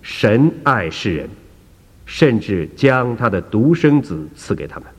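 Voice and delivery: slow, deliberate verse reading; a measured, unhurried recitation. Acted. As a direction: read it out word by word for her to follow. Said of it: "医生就背着说呢".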